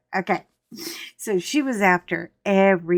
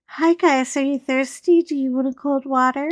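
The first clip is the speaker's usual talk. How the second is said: higher, sing-song sweet offer; a mock sugary flirty hostess; flirty friend; 6 semitones higher than usual. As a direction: bat your eyelashes at the firemen. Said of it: "she's like".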